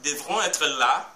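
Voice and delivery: Devront être là with "là" loud and held; stress on LÀ. Shown as a demonstration. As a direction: build to a strong "là". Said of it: "là, c'est la syllabe la plus forte".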